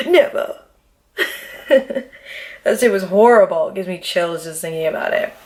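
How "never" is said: Never punched high and hard; one high, final Never; emphatic never. Real, not acted. Swearing to the viewers, a high emphatic Never. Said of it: "I'm gonna tell y'all this".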